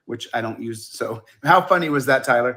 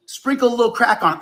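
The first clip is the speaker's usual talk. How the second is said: comedian impression; 10 semitones higher than usual. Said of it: "And then he would go".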